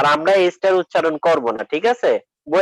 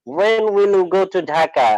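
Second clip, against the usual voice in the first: slow, careful question read for learners; example question; much slower than usual. Shown as a demonstration. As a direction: spell it out slowly for the class. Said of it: "এটা যখন আমরা প্রশ্ন করব".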